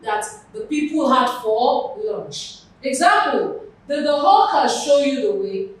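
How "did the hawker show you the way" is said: emphatic "hawker", then let the question fall away; stress on HAWKER. Shown as a demonstration. Teacher asking who showed the way, emphatic stress on "hawker". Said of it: "Hawker is carrying the stress".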